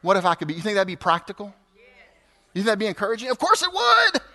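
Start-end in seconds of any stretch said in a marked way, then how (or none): 3.3-4.2 emphatic. Real, not acted. Emphatic answer to own question.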